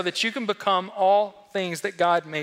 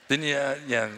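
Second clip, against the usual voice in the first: usual speaking voice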